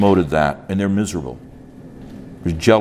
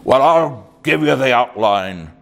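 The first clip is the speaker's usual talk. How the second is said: Irish brogue; 4 semitones higher than usual. Retold or imitated. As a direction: imitate an old Irish preacher's brogue. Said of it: "So without the accent".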